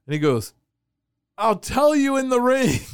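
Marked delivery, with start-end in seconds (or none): 1.4-2.8 higher, louder tough-guy reply; a hammed-up wrestler's brush-off. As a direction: puff up like a wrestler brushing him off. Wrestler's gruff reply retold.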